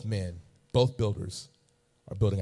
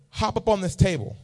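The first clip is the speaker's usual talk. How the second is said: doctor voice; 10 semitones higher, 4 dB louder than usual. Retold or imitated. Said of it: "He says".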